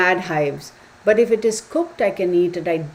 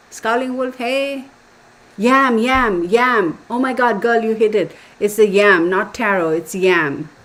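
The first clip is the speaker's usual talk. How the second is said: loud, high and thrilled; excited; 3 semitones higher, 6 dB louder than usual. Real, not acted. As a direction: cheer the right answer. Excited at viewer's right answer.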